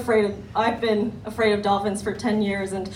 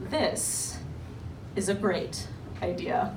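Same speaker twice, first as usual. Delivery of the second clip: God's voice; 3 semitones lower, 7 dB quieter, slower than usual. Retold or imitated. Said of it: "he was like".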